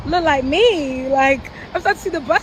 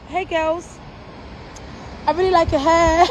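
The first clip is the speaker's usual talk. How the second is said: begging. Retold or imitated. To the Lekki girls, a desperate begging compliment. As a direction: beg them to like you, laughing. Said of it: "Like a beg".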